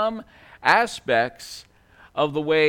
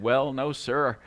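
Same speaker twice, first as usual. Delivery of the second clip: lower, mildly abashed reply; sheepish; 5 semitones lower than usual. Acted. Telemarketer, taken aback, answering the rich man, sheepish. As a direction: back down a little, apologetic and hesitant. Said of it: "sheepishly said".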